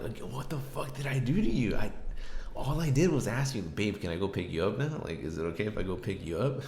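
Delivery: heated retelling of an indignant comeback; indignant protest. Retold or imitated. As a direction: protest your innocence, hurt and heated. Retold indignant protest to girlfriend.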